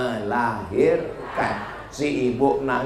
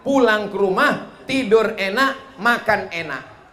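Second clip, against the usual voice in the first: doctor's advice in higher, lively voice; raised storytelling voice; 5 semitones higher than usual. Retold or imitated. Doctor in America advises rich patient, raised storytelling voice. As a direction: list it out high and bright.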